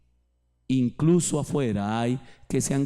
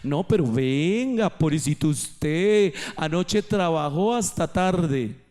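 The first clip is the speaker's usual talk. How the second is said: coaxing voice. Retold or imitated. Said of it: "en esa voz que le dice".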